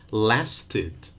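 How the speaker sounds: lasted as two syllables, LAS-tid; lasted with a clear added vowel before d; extra syllable. Shown as a demonstration. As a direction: sound the id ending in lasted. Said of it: "with an extra syllable".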